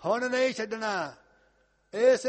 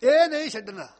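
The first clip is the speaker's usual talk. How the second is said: fiery preaching; 3 semitones higher, 10 dB louder than usual. Acted. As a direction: proclaim it with full force. Preacher's climax.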